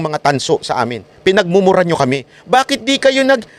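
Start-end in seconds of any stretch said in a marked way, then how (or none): 2.5-3.5 laughing taunt. Real, not acted. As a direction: needle them, chuckling, pitched up. Taunting former critics, laughing. (nang-aasar na tanong habang tumatawa)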